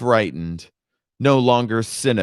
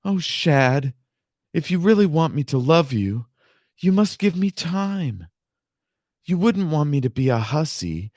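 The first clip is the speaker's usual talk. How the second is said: mock sobbing plea, higher; 5 semitones higher than usual. Lorinda pleading with Shad, faked sobbing. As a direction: plead through put-on tears. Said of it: "she had the inspiration to sob".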